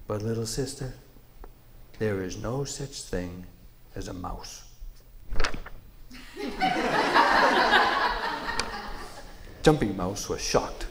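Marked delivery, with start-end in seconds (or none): 0.1-4.6 lightly voiced big beast; a hint of a great buffalo; huge snorting bison. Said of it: "buffalo speaks". 5.1-9.6 rumbling buffalo laugh. Acted.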